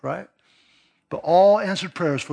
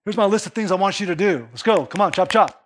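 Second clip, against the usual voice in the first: put-on demanding kid; 3 semitones higher, 3 dB louder than usual. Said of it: "comes up to you like".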